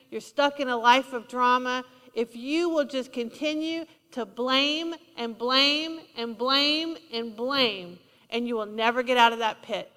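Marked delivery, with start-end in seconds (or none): 2.1-8.0 slow building repetition. Real, not acted. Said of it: "slow repeated blame".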